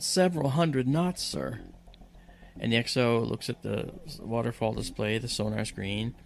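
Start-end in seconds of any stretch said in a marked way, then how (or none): 0.0-1.6 loud. Retold or imitated. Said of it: "said loudly".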